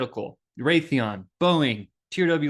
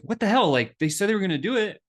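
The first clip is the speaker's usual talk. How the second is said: getting mad; 5 semitones higher than usual. Retold or imitated. Salesman fuming about clients who ghosted, exasperated. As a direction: vent at the broken promise. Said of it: "Then I started getting mad".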